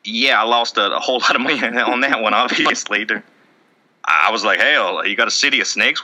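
shaky impression of a Southern guy; lightly voiced Southern good old boy; Colby Rasmus. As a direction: play a sincere backwoods Southerner, loosely. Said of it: "I don't do very good impressions".

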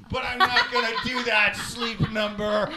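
loud laughing rant at a company; angry rant. Real, not acted. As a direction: yell it out, half joking. Ranting at Sleep Number.

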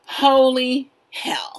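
slow hushed whisper; whispered awe. Real, not acted. Stressed in the ticket line, a slow awed whisper. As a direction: breathe it slowly in disbelief.

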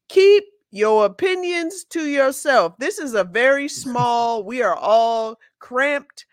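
emphatic, measured public announcement; mock cabin announcement. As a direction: lay down the rules to cramped passengers. Acts out an added cabin announcement.

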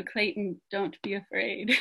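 a light, soft hint of a Spanish accent on "Clayton, don't be afraid". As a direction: gently imitate a Spanish-speaking friend saying "Clayton". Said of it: "But in her beautiful Spanish accent".

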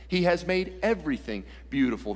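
weight on "everything", the rest easing off; stress on "everything". Shown as a demonstration. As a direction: lean on "everything". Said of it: "you need to underline the word everything".

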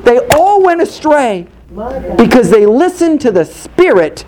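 insistent preacher's cadence; forceful preaching. Acted. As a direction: drive each point home to the congregation.

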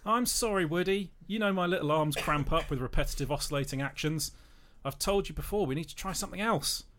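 Rex the dinosaur. Acted. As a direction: play a timid little dinosaur apologising. Rex apologises to Woody.

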